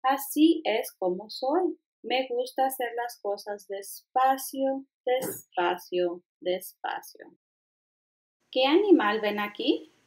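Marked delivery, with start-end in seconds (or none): 0.0-7.4 sloth. Acted. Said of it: "el perezoso bostezó y dijo".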